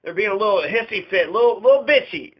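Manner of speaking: a mock frantic backroom rant; mock panic. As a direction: play a panicking official with a laugh breaking through. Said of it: "he's all freaking out".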